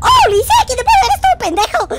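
screamed very high and loud; panicked gamer scream; terrified scream. Real, not acted. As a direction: shriek in pure panic. Screaming at game scare.

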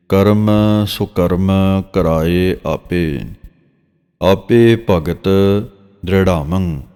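drawn-out, measured reading of sacred verse; slow scripture recitation. Shown as a demonstration. Teacher reciting Gurbani verse for students, slow and measured. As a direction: recite each phrase slowly and reverently.

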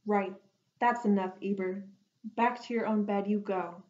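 fed-up. Acted. Last straw, Noah loses patience.

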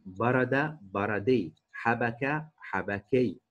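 بردي and حبكي slowly, endings drawn out; measured classroom model of بردي and حبكي; slow word-form demonstration. Shown as a demonstration. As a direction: stretch each form, بردي then حبكي. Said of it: "فبتصير زي كندا كندي".

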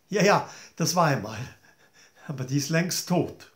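fast, brushing it off; smug dismissive queen. Acted. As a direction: wave it away smugly.

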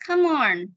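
"Come on" run together as "kuh-mon"; linked pronunciation. Shown as a demonstration. Teacher modelling linked sounds for students, linked. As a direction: carry the m of "Come" into "on". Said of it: "Ok, mình nối âm".

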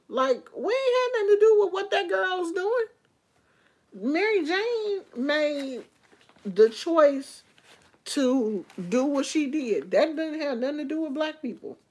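heated rant, pitch way up; indignant rant. Real, not acted. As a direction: push back hard, voice up high. Heated rant against video's claim.

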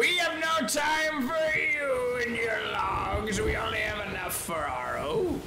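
hammy pirate shout. Pretend. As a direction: bellow it at the rival crew. Pirate yelling at enemies.

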